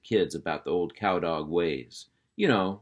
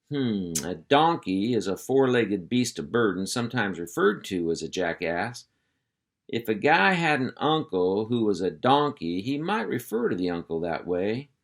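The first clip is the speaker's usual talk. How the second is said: hearty uncle voice; 3 semitones higher than usual. Acted. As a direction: round up the kids like a ranch boss. Hank explains donkeys.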